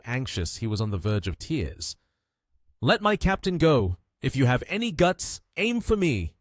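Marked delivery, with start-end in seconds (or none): 2.8-6.3 high-pitched, restrained yell. A narrator's reading. Anxious man pleads for his captain, mild yell. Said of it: "he yelled".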